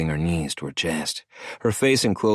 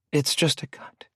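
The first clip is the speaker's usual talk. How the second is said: wheezed; 9 semitones higher than usual. A narrator's reading. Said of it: "she wheezed".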